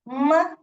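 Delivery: slow, drawn-out "म" sound; isolated letter sound. Shown as a demonstration. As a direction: hold "म" as a hum before the vowel. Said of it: "ये हो गया म".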